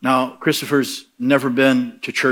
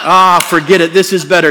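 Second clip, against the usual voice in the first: put-on cheerful ex-drunk; 5 semitones higher, 9 dB louder than usual. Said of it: "he gets up and goes".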